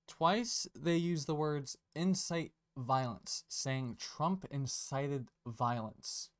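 a pointed slow rereading of the statement; slow, deliberate reread. Shown as a demonstration. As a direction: read it again slowly, every word weighted. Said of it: "I'm gonna read it again".

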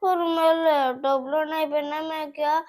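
loud whiny wail, words dragged at the end; put-on tearful pleading; tearful insistence. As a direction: keep crying and insist like a stubborn child. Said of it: "ਰੋ ਨਾ ਮੇਰੀ ਧੀ".

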